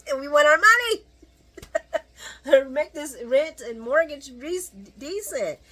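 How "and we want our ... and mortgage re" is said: loud, high playful outcry; high-pitched comic yell; mock demand. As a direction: holler it like a one-person protest, half laughing. Comic rant about housing costs.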